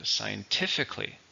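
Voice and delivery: "scientifically" as sci-en-TIF-ically; stress on third syllable. Shown as a demonstration. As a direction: model "scientifically" with the weight on TIF. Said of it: "stresses on the third".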